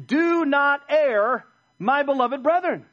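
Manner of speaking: loud, high and drawn-out preacher's command; emphatic command. Acted. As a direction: issue a solemn charge, stretching the words. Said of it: "What's the command?".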